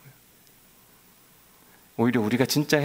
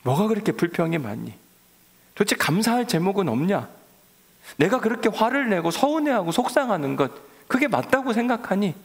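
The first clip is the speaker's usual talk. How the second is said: a hint of God gently scolding, rising; God asking his people, mildly reproachful; God reproaching us; 6 semitones higher than usual. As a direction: question them like a hurt father. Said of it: "우리에게도 하신 하나님의 말씀인 거예요".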